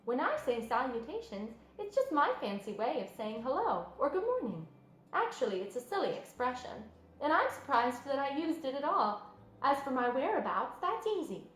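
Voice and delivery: lightly voiced gentle spider; kind spider voice.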